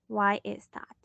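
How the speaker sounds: ordinary talk, nothing marked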